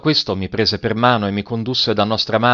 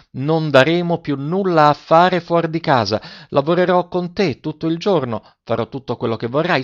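put-on higher, fervent girl's plea; a daughter offering everything, voiced higher; impassioned girl Silvia; 3 semitones higher than usual. Silvia hugging her mother, fervent and higher.

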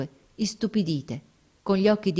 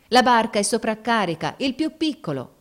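raised, urgent sailor's call; grido dei marinai; 5 semitones higher, 4 dB louder than usual. A narrator's reading. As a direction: warn them in a high shout. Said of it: "gridarono i marinai". (grido acuto e urgente)

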